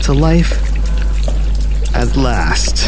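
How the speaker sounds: gloating mad scientist. Acted. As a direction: savour the moment of triumph. Mad scientist greets his creation.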